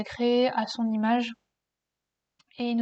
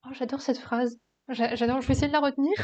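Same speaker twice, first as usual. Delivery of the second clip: whispered delight. Real, not acted. Delighted aside about the quote. (murmuré avec ravissement)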